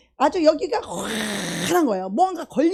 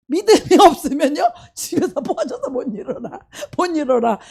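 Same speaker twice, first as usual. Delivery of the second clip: laughing; 5 dB louder than usual. Real, not acted. Repeats phrase laughing.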